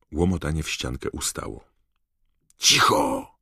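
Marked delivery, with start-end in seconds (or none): 2.6-3.3 sharp hissed hush. Acted. Someone behind the wall hushes the others, sharp hiss. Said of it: "syknął ktoś z tamtej strony".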